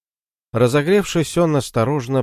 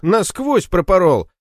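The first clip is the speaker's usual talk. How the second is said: pained wail; 10 semitones higher, 4 dB louder than usual. Acted. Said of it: "продолжал стонать Борщок".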